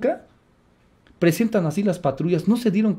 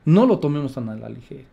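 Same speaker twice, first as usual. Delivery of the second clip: in earnest; 5 semitones lower than usual. Real, not acted. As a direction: drop the voice and mean it seriously. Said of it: "Se lo digo en serio". (advertencia en serio, en voz más baja)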